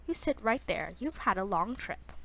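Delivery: a light, hesitant try at Irish; attempted Irish accent. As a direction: read gran with a touch of Irish. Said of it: "Irish accent? Like, I'm not very good".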